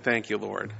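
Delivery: grateful and trusting, gently; sincere thanks. Shown as a demonstration. Preacher showing a sincere prayer, soft and grateful. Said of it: "We're supposed to be like".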